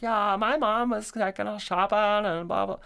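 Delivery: high-pitched mock kid chatter; casual prattle imitated way up high; imitating chatting daughter. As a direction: run on in a high, put-on girl's voice. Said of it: "she was talking to this nurse lady".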